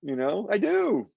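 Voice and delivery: ordinary talk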